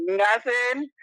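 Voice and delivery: high-pitched innocent denial, rising at the end; feigned innocence. Retold or imitated. Caught hiding a guy, answers friend with feigned innocence. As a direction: play caught out and covering up.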